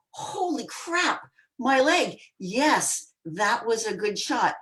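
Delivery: startled realization. Retold or imitated. Delayed realization of a hit.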